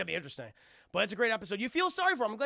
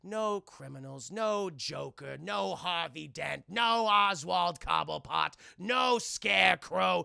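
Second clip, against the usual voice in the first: slow, drawn-out villain taunt, building louder; gloating villain; 3 dB louder, slower than usual. Retold or imitated. Mad Hatter taunting Batman, slow gloating. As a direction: savor every word like a gloating captor.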